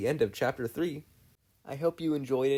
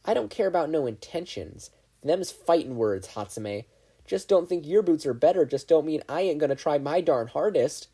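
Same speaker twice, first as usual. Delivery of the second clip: fiery country twang; 5 semitones higher, 5 dB louder than usual. Acted. Ochako challenging Mei in a country accent.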